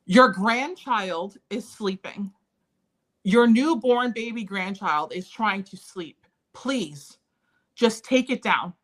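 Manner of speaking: slow, deliberate plea with weighted words; retold pleading. New mother upstairs to her arguing parents, retold pleading. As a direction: spell it out slowly, imploring. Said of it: "I'm just begging them".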